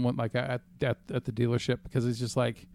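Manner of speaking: ordinary delivery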